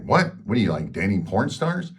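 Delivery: mock-stunned outburst at her claim; shocked disbelief. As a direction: react as if you can't believe your ears. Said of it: "I'm like".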